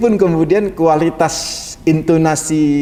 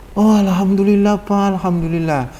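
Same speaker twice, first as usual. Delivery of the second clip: eager thanks; 4 semitones higher than usual. Retold or imitated. Wife gushing thanks to her husband before he explains, eager. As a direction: gush with premature joy.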